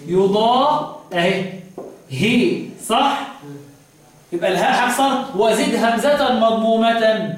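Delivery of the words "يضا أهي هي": يضا broken off before a separate هي; long يضا, then هي with an i-vowel; kasra on haa. Shown as a demonstration. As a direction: isolate هي as hi. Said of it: "ضم الهاء يكسر عاصم".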